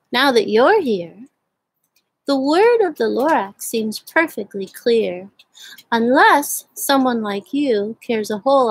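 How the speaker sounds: lively read-aloud of a rhyming story; storybook narration. A narrator's reading. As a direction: read it like story time for kids. Reads The Lorax aloud to children.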